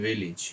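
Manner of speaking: ভিলেজ ending in a short 'ij'; correct pronunciation. Shown as a demonstration. Teacher models dictionary sound for students, correct pronunciation. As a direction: say ভিলেজ as 'VIL-ij'. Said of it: "উচ্চারণটা হচ্ছে, correct হচ্ছে".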